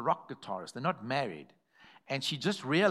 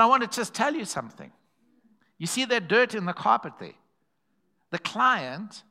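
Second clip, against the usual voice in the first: stern boss; 5 semitones higher, 4 dB louder than usual. Retold or imitated. Boss scolding cleaner over dirt.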